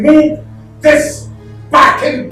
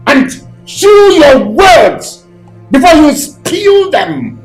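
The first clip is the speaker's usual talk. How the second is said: raised, higher, forceful rebuke; angry warning; 4 semitones higher, 3 dB louder than usual. Acted. Man warning the accusing mother, angry raised voice. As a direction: hit each phrase hard, with menace.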